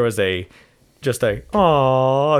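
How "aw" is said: long drawn-out mock "aw"; crowd sympathy. Imitating a play's audience reacting to the crying stink bug, crowd sympathy. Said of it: "across the whole crowd every time".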